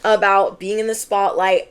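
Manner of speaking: high, flustered pretend objection; a reluctant viewer voiced in a high, flustered protest; mock protesting viewer. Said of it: "You could be like".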